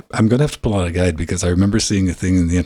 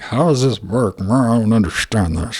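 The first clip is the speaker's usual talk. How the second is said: high, slow bewildered voice; confused user; 4 semitones higher, slower than usual. Retold or imitated. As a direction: act lost and puzzled. Confused user mimicking himself.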